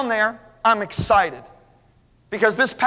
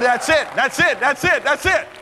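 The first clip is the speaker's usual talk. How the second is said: excited realization; 5 semitones higher than usual. Retold or imitated. Preacher recalls his excited realization.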